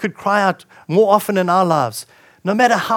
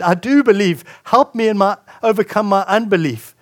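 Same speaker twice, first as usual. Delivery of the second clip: mild, raised-voice heartfelt appeal; crying out; 3 semitones higher, 4 dB louder than usual. Acted. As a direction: plead a little louder and higher. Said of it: "there's fear as he cries out".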